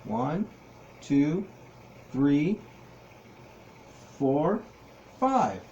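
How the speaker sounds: put-on teaching a child to count. Shown as a demonstration. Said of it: "Can you count with me?".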